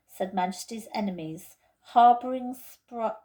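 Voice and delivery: slow, official notice read aloud; solemn official announcement; formal proclamation. Acted. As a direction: read it like a stiff public decree. Reading out the arrest notice.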